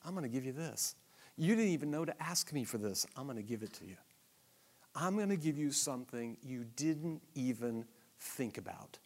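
very soft, low and loving; whisper-soft, generous promise; God gently promising his people a gift; tender God voice. Retold or imitated. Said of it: "And he says".

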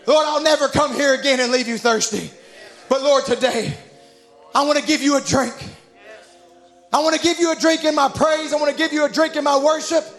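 earnest appeal to God, rising in pitch; fervent pulpit prayer; preached prayer. Real, not acted. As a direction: pray aloud fervently, phrase by phrase.

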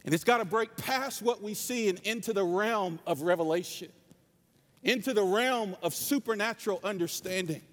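impassioned sermon delivery, pitched above chat; earnest pulpit exhortation; preaching. Real, not acted. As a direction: preach it to the congregation in measured, emphatic phrases.

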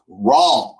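light imitation of a Southern kid; name run into one syllable, Deep South style; mock Louisiana accent. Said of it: "deep, deep South accent".

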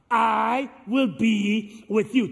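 slow, firm refrain for the crowd to echo; slow call-and-response. Shown as a demonstration. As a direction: lead the congregation slowly. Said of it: "You say it with me now".

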